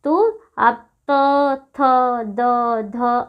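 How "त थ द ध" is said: "त, थ, द, ध" one at a time, tongue and teeth meeting; dental articulation. Shown as a demonstration. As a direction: show "त, थ, द, ध" as isolated dental sounds with pauses. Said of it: "आप बोलोगे तो दांत क्या होंगे".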